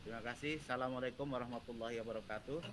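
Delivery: very faint, far from the mic; soft and hard to hear; barely audible. Real, not acted. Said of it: "suaranya kecil banget".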